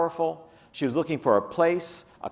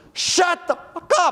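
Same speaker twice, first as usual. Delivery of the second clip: very high, loud, shrill shout; 13 semitones higher, 6 dB louder than usual. Retelling how a woman shouted at her classroom; retelling a shout. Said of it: "she shouted at her classroom".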